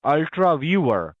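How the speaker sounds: Ultra Viewer said slowly with a clear V in Viewer; corrective spelling-out. Shown as a demonstration. Agent corrects the caller's mishearing: slow, careful Ultra Viewer. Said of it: "It's viewer, not beaver".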